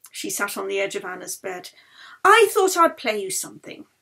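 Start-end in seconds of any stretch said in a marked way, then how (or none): 2.2-3.9 higher, bright offer; lightly voiced Yeli. Violinist offering to play for her sick friend, higher. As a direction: offer the music gently.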